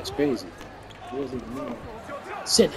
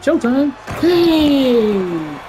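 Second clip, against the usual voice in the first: hype shout; 10 semitones higher, much slower than usual. Real, not acted. Celebrating a turnover.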